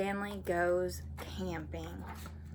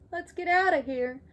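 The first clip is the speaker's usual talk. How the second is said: high, urgent frightened voice; scared kid; 10 semitones higher, 6 dB louder than usual. Acted. Stanley urging Arthur away from skunk, high and scared. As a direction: panic a little at the skunk.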